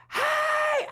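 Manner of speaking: calling out. Retold or imitated. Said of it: "I screamed with everything".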